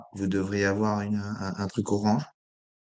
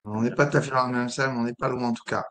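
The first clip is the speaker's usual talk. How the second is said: rough, croaky voice from a sore throat; hoarse voice struggling to get through. Real, not acted. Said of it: "excusez-moi cette voix d'outre-tombe".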